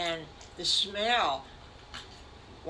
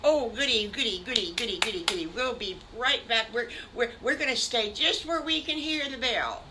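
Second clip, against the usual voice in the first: higher, louder goody chant then eager promise; happy kids; 5 semitones higher, 4 dB louder, faster than usual. Acted. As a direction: chant it like delighted children. Piglets happy about the party.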